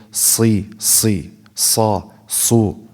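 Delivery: si, sa, su with audible breath in the S; slow syllables with long hissed S; hamis on S. Shown as a demonstration. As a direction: draw out the airy S in each syllable. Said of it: "There's hamis, there's breath".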